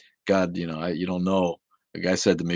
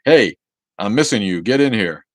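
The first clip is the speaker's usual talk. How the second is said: loud, higher call-out; church sign as God; 4 semitones higher, 11 dB louder than usual. Acted. Reading out God's church sign, loud mock summons. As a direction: holler it like God summoning someone. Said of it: "put a church sign up that says".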